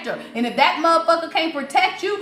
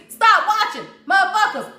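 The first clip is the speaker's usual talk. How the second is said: calling out; 5 semitones higher than usual. Real, not acted. Calling out the watchers.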